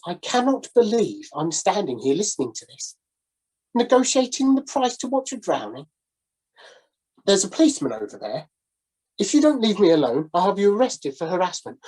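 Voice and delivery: lightly voiced gentleman losing patience; exasperated gentleman. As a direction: threaten him with the policeman, stiffly.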